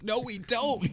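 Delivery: high, loud, flat-out no; blunt refusal. Retold or imitated. Reagan rejecting the villain's shared pain, loud and high. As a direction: shut him down cold and loud.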